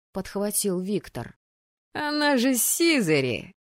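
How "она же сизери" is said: high-pitched amazed outburst; astonished exclamation. A narrator's reading. Student reacts to her gift, astonished. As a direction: exclaim it in disbelief.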